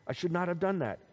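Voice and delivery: mild, acted-out remorse; a touch of regret; regretful. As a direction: quietly own up to a mistake. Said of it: "he regretted it".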